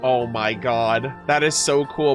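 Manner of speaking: low, hushed-in awe reaction; awed. Real, not acted. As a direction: drop low, genuinely moved. Awed aside during reading.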